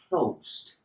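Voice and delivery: "closed" in one syllable ending on a crisp consonant; E left silent. Shown as a demonstration. Teacher has learners repeat after him, E silent. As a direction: say "closed" without any E before the ending. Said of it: "Repeat with me".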